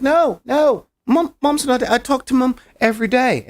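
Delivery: high, loud, rushed mock panic; frantic denial. Patient insisting to doctor that Mom is alive, acted frantic denial. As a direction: imitate someone desperately refusing bad news.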